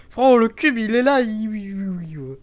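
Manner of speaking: high, loud excited call; excited shout. Real, not acted. Excited shout about cube.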